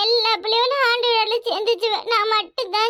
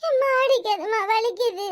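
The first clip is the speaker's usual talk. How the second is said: crying in pain. Acted. Daughter being beaten.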